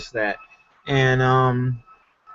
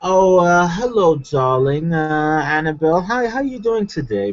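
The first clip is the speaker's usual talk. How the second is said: mock British accent; 2 semitones higher than usual. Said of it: "I wanna start using a British accent".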